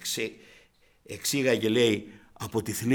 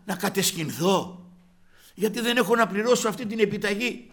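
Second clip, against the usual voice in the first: retold plea to God, pitched higher as it builds; desperate prayer; 6 semitones higher than usual. Debtor asks the Lord if he must go to prison, desperate pleading.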